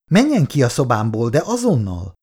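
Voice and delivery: mild angry order to leave; trembling with rage. Acted. Irén orders Kátai out of her room, mildly furious. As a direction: throw him out, shaking with anger. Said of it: "Irén hangja remegett a dühtől".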